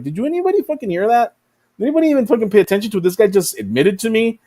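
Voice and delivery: high, disbelieving question; alarmed. Retold or imitated. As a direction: demand an answer, shocked.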